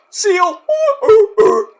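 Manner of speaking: high, loud seal hoots; mock seal noises. Vlogger jeering at the critics as flappers, mock seal hooting. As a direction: hoot like a performing seal, high and mocking.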